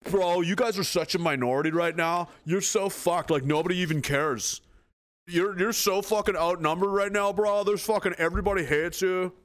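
swagger and threaten like a bully; mock bully. The government voiced as a bully, swaggering and taunting. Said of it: "It's acting like".

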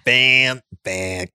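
croaking frog person. Pretend. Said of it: "That was my frog impression".

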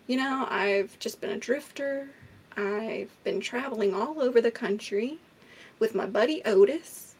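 a hint of Henry's drawling killer voice. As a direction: lightly put on, as the killer telling his story. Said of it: "I don't know why I'm talking like this, but this is how he talks".

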